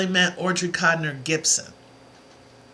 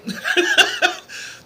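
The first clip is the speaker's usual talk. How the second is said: short breathy giggle, pitched way up; 13 semitones higher than usual. Real, not acted. Laughing at her own joke with viewers, a high breathy giggle. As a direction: let a high airy laugh slip out.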